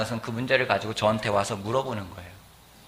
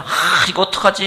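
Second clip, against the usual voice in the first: mock fretting over a problem, pitched up; groaning, struggling child; 5 semitones higher, 5 dB louder than usual. Daughter struggling with addition and subtraction, mock groaning. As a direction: act out a daughter stuck on her sums. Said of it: "끙끙 앓으면서".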